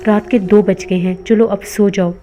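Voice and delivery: gently. Acted. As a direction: coax him to bed kindly. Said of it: "बड़ी नरमी से कहा". (बड़ी नरमी से, प्यार से समझाते हुए)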